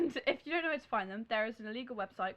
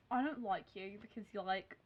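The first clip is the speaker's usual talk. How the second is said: put-on softer, mean-girl Australian twang; accidental Australian accent; 3 semitones lower, 6 dB quieter, slower than usual. Playing Delancey telling Blair off, Australian accent. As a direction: play the rival with an Australian twang. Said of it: "She's not Australian".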